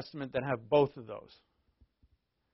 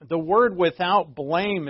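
"without blame" said slowly and louder, each word weighted; stress on without blame; 3 semitones higher, 6 dB louder, slower than usual. Real, not acted. Pastor to congregation, slow heavy stress on the phrase.

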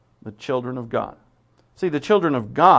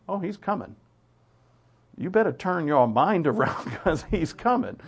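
confident assurance; 4 semitones higher than usual. Retold or imitated. Faithful slave answers confidently.

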